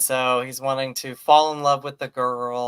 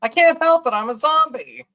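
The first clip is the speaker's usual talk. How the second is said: higher, louder, giggling through a whiny excuse; laughing mock excuse; 12 semitones higher, 7 dB louder than usual. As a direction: play the helpless zombie while cracking up. Zombie son excuses himself, laughing.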